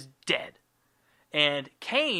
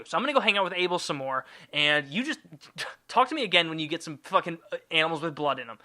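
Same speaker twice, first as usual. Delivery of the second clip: mildly sassy, hurried scolding; sassy God; faster than usual. Acted. God telling Cain off over the present, sassy. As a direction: dismiss him with mock-hurt sass. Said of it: "really sassy talking".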